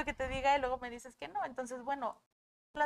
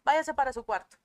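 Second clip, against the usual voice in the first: stern parent orders; 4 dB louder than usual. Acted. Voices parent banishing crying child.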